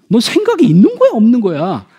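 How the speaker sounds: put-on sharp rising scold at a child; a parent's sharp scolding question; exasperated scolding parent. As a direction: snap at the kid like a fed-up parent.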